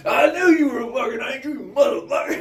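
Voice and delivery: loud, high put-on voice; hammed-up gruff admiration; mock clerk voice. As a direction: play the amazed clerk. Clerk voiced, odd timbre.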